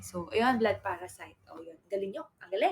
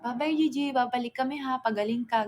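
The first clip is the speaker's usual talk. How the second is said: mock baby talk; 3 semitones higher, 4 dB louder than usual. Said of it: "Di ako nagpa".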